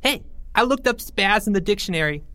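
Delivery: very high squeal. A narrator's reading. Porge calling across the classroom, very high squeal. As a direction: squeal out the joke. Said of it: "squealed Porge".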